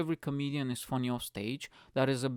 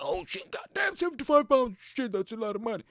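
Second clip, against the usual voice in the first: high, loud shocked yelp at the price; shocked guy; 9 semitones higher, 3 dB louder than usual. Retold or imitated. Guy hearing the drink price, high shocked squeal. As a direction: squeal at seventy-five pounds.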